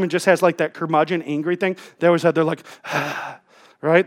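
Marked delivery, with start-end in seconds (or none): 2.8-3.3 mock curmudgeon's sigh; impatient sigh. Curmudgeon who is always angry, impatient sigh. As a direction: imitate an angry person's habitual sighing. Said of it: "impatient and angry and sighing all the time".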